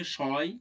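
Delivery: শয় said with an audible "ay" glide; ay sound demonstrated. Shown as a demonstration. Teacher showing the sound inside a word, শয় pronounced with "ay". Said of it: "উচ্চারণের অয় উচ্চারিত হচ্ছে".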